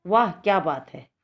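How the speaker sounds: exclaimed. Shown as a demonstration. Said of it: "इसमें क्या आएगा ये".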